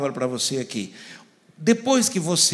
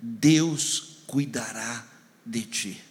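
solemn blessing; 4 semitones lower, much slower than usual. Acted. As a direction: lay the words down gently, one by one. Solemn verse, very slow.

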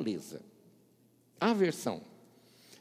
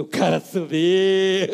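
slow mock amazement; 9 dB louder, slower than usual. Mocking the title.

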